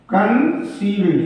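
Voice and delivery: कंसील्ड repeated slowly and clearly. Shown as a demonstration. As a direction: say कंसील्ड again slowly for dictation. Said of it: "फिर कंसील्ड हो गया".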